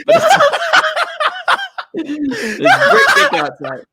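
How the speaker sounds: put-on New York accent breaking into laughter. New York Nick cracks up mid-performance, laughing in a New York accent. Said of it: "he's gonna go full New York on ya".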